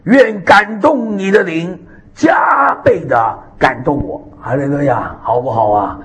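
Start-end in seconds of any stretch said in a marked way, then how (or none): 0.1-4.3 slow, tearful cry of a plea. Acted. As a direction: beg for the double portion through tears. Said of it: "以利沙说".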